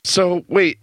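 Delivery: whisper. Real, not acted. Whispered aside before a bit.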